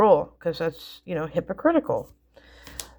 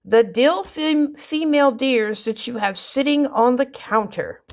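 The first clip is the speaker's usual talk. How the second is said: put-on explaining kid; 6 semitones higher than usual. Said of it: "And he goes".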